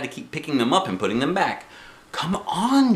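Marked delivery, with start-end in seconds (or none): 2.1-2.9 high call of Mother. A narrator's reading. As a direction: hurry her along, voice rising. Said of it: "said Mother".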